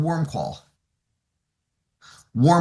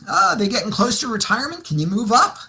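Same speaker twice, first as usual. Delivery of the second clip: offhand, slightly higher question; casual; 4 semitones higher than usual. Acted. Coach probing a client about retirement, casual. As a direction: ask as if just chatting. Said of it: "I do it very casually".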